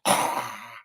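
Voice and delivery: mock "ah" noise; imitated movie cry. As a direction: mimic the hero's reaction sound. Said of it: "He's like".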